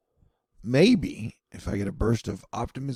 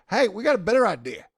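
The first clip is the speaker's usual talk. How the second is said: a hint of a dismissive crowd, pitched up; lightly voiced know-it-all public; mild mock eager voice; mocking Americans; 7 semitones higher than usual. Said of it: "People in America were like".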